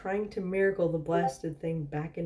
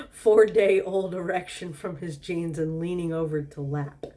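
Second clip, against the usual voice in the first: first read, louder and faster; blurting the line out; 6 dB louder than usual. Shown as a demonstration. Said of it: "Leaning over his lap".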